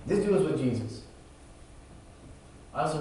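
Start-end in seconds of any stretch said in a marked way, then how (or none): 0.1-1.0 mild calling out. Acted. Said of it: "she says to everybody around him".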